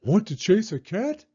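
high-pitched dog voice; barking dog. Acted. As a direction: ask it as a dog, in short barks. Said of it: "barked the dog".

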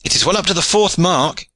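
high, eager calling-out; excited cry. A narrator's reading. Aylward watching his comrade's arrow fly, crying out excitedly. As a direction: call the mark high and keen. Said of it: "cried Aylward".

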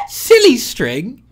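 high, loud, slow questioning; incredulous repeat. Real, not acted. Critic questions a random film prop, incredulous. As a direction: stretch out SILLY in loud disbelief.

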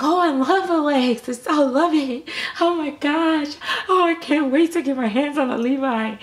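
squealing fan chorus, lightly mocked; gushing fans. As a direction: coo over the doll like a fan. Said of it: "And everybody's like".

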